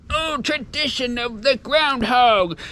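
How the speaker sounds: high, slow, mock-solemn toff voice; lofty mock-reverent old gentleman; mocking pompous old men. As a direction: ham up the stuffy tradition-keeper. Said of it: "all these old white men with their top hats on".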